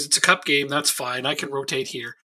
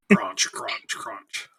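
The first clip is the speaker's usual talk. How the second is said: breathy, fading crunch noises; imitated crunching; 7 semitones lower, 3 dB quieter, much slower than usual. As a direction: whisper the crunching sound. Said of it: "I'd be like".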